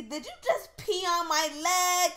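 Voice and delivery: loud indignant scolding. Real, not acted. To Daisy after she peed on her, indignant. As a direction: scold the unicorn.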